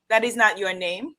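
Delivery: put-on firm Igbo-accented correction; bad Igbo teacher accent. Igbo teacher correcting a student, badly imitated accent. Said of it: "for doing a very bad accent".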